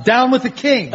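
American accent demo. Shown as a demonstration. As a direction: show off an American accent on request. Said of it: "can you do a convincing American accent".

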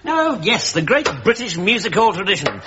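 mock-impressed echo; scornfully grand repeat of praise; sarcastic. Captain echoing the lieutenant's music hall praise, sarcastic.

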